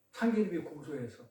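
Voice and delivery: low, soft throwaway of the joke's answer; quiet first punchline. Acted. Preacher tossing off the joke's answer to the class, quietly. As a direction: mutter 참기름이 고소해서 softly under the breath.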